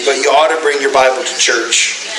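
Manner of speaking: said through a chuckle; laughing. Real, not acted. Pastor repeating his point to the church, still chuckling. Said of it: "I'm being silly".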